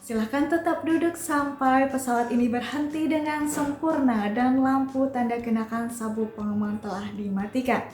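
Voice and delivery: polite after-landing PA voice; flight attendant. Shown as a demonstration. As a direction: welcome them like a cabin announcement. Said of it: "Kayak gini bunyi announcement-nya".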